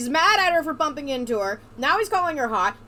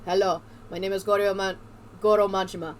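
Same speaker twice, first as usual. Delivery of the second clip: Majima; 5 semitones lower than usual. Acted. Hero introduces himself before a fight, lightly voiced, low. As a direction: lower voice, mock-heroic introduction.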